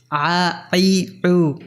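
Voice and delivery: "আ, আই, উ" each begun with throaty Arabic ayn. Shown as a demonstration. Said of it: "আইনের কোনো বাংলা, আ, প্রতিবর্ণ বাংলায় নেই". ("আ, আই, উ", আরবি আইন-এর উচ্চারণে)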